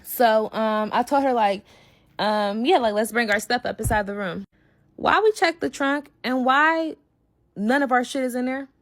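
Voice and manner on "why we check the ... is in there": retold outraged disbelief. Storyteller finding the trunk empty, outraged disbelief. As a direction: stretch it out, stunned and upset. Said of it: "now I instantly lose my shit".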